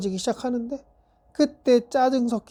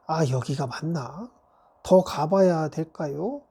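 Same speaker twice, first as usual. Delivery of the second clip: put-on flustered child; 4 semitones lower than usual. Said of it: "이렇게 어리버리 떨더라고".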